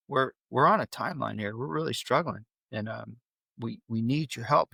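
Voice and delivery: calm, composed explaining. Shown as a demonstration. Dad calmly asking his son for help, toned down. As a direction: reason with him gently, keeping composure. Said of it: "lower my tone".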